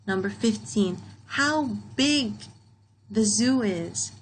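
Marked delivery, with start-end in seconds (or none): 1.3-4.1 higher, slow exclamation; big punched high, then slow; strong feeling. Shown as a demonstration. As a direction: marvel at how big it is. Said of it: "read with strong feeling".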